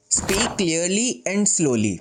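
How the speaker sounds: very slow, word by word; deliberate slow-speech demo; slow and clear. Shown as a demonstration. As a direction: space out each word clearly, very slowly. Demonstrates the tip while naming it.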